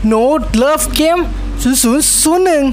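high, drawn-out announcer call; race announcer. Pretend.

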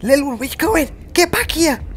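high, loud call after someone running off; shouting after him. Real, not acted. Player yelling at fleeing game character, loud shout. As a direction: yell at him to come back.

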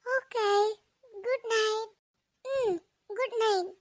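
soft bedtime sign-off; subdued good night. Acted. Child agrees to call tomorrow, soft good night. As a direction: give in softly and say good night.

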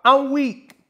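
hammed-up woman's reaction; mock woman laughing. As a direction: imitate women cracking up. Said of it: "women ... talking about".

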